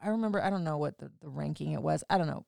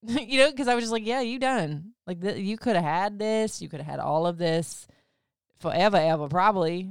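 louder, higher, gloating; feeling like a boss; 3 semitones higher, 4 dB louder than usual. Real, not acted. Telling listeners about dumping the ex, triumphant gloat. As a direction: savor the win, smug and proud. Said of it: "feeling like a fucking boss".

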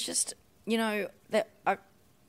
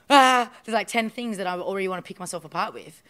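exasperated retort; 3 semitones higher, 9 dB louder than usual. Retold or imitated. Retelling reply to coach.

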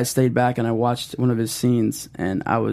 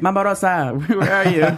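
calling out; 7 semitones higher than usual. Retold or imitated. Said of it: "Jack would be like".

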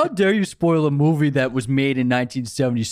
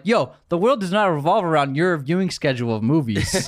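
laughing; 5 semitones higher than usual. Real, not acted. Laughing rant about entitled commenter.

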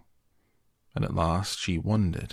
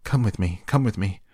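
louder, rushed urgent plea; urgent call; 3 semitones higher, 5 dB louder than usual. Acted. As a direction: call out in a panic. Panicked mother calling urgently.

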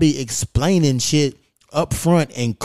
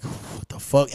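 softer, breathy under-the-breath curse; whispered disbelief; 6 dB quieter, slower than usual. Retold or imitated. Seeing the sixty-dollar bill, whispered stunned curse. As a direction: mutter it in shock at the bill.

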